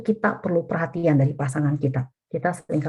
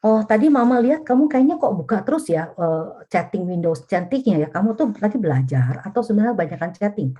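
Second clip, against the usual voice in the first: put-on higher, friendly mother asking her child; gentle clarifying question; 4 semitones higher than usual. Shown as a demonstration. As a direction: ask the child kindly, only to clarify. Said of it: "Bedanya begini, waktu klarifikasi". (ibu bertanya lembut kepada anak untuk klarifikasi)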